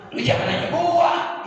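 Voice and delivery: mildly irritated Betawi retort; a touch of sewot; mock annoyed. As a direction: brush off the question like a grumpy Jakartan. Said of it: "orang sewot kan".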